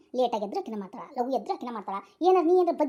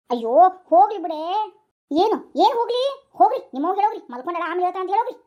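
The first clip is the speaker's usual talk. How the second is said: angry snapping; 7 dB louder, faster than usual. Acted. Daughter-in-law snapping at husband.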